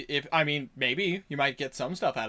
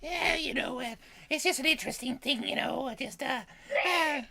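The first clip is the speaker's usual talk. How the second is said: goblin voice; 10 semitones higher, 3 dB quieter than usual. Shown as a demonstration. GM chatting on with the players in his high goblin voice. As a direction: still high in the goblin register. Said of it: "comfortable range".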